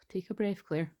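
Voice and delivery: holding back real tears, halting; close to crying. Real, not acted. Speaker steadies themself while reading the cards, close to crying. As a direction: pause and breathe to keep from crying. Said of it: "I'm gonna start crying again".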